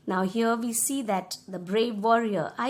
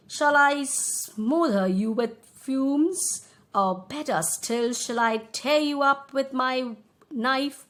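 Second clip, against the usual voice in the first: slow, slightly louder mean dragon voice; wicked dragon; 2 semitones higher, 4 dB louder, slower than usual. Acted. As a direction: savour each threat slowly. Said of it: "a very mean and wicked smile".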